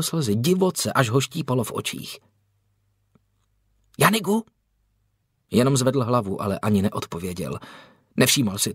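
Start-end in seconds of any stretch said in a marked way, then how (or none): 4.0-4.4 high, questioning call. A narrator's reading. Young brother looking for Janik among the trees, calling out. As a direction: call the name with a rising, searching lilt. Hidden child calls for Janik.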